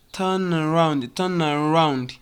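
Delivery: "turn around" run into one word; connected words. Shown as a demonstration. Teacher showing how it sounds, linked "turn around". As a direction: glide from "turn" straight into "around". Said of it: "So it sounds like".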